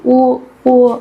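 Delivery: two mock vomiting "uh" sounds; imitated retching. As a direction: mimic someone throwing up, twice. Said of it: "Mama langsung muntah-muntah".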